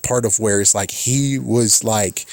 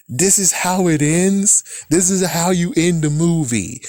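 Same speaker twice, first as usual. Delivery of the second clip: disbelief; 5 semitones higher than usual. Retold or imitated. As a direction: ask it like you can't believe the ending. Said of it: "And I'm like".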